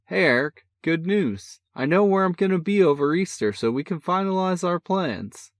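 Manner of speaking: a cocky big brother, full of energy; brash older brother. A narrator's reading. Older brother teasing on the phone, brash and cheerful. Sean voice again.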